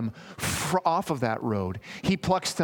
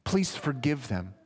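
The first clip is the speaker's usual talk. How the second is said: humble plea; slower than usual. Acted. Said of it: "plead on our behalf and say".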